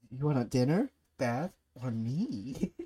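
slow coy anime wife voice; flirty anime voice. Acted. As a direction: tease it slowly, laughing. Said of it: "Do the".

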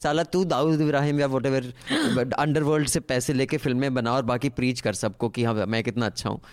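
fast sneering preachy mimicry; mocking Raj Kapoor. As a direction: rattle it off like a smug preacher. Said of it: "he just annoyed me".

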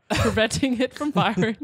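real laugh creeping into the reading. Real, not acted. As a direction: read on while starting to crack up. Laughing while reading the mishap.

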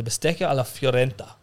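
a touch of Italian accent; Italian pronunciation. Shown as a demonstration. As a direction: say the dish name as an Italian would. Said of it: "How Italian was that?".

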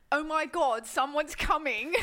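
lightly put-on British voice, drawn-out ending; mock alarm with a British accent. Redoing the model on the ship as British, hammed-up British accent. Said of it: "Isn't she British?".

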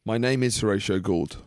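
slow, grand reading of a letter; mock solemn letter. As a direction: read it like a pompous farewell. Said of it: "read out some of our fan mail".

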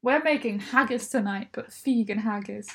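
emphatic, mildly forceful announcement; aggressive. Real, not acted. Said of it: "I said it so aggressively".

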